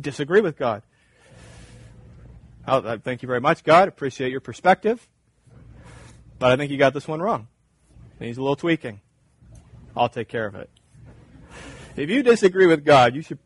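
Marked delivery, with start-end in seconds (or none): 2.7-10.7 lower, casual condescending politeness; humouring a boss you think is wrong; mock polite dismissal. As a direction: politely brush off someone who knows better. Mock reply brushing God off.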